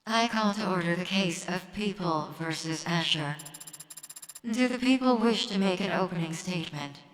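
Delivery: lightly robotic court judge; a hint of machine monotone. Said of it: "I got a robot voice".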